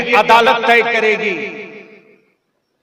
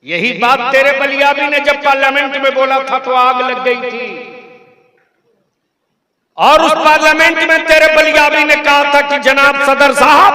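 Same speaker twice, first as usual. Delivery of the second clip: raised, sustained public declamation; declamatory oratory; 6 semitones higher, 6 dB louder than usual. Real, not acted. Orator recalls his parliament speech to crowd, declamatory. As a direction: proclaim it as to an assembly.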